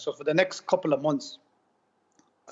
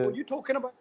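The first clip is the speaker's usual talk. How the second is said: retold incredulous protest; 9 semitones higher, 4 dB quieter, faster than usual. Patient replaying his argument with the nurse, mock incredulous protest.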